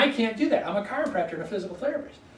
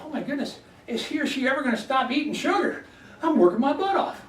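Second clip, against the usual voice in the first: higher, pleading voice of an overworked body; exasperated body; 5 semitones higher than usual. Retold or imitated. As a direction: play the worn-out body begging for a break. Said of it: "Your body is going".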